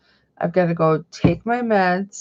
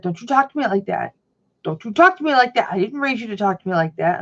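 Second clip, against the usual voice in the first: imitating scolding mom; 3 semitones higher, faster than usual. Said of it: "she'll be like".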